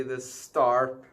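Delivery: put-on a playful, half-hearted Russian accent; mock Russian accent. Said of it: "torturing the Russian accent".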